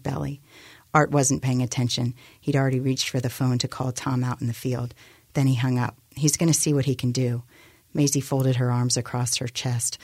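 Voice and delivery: measured novel reading; story narration. A narrator's reading. Author reading her novel to a radio audience, measured narration. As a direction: read the scene out evenly as a narrator.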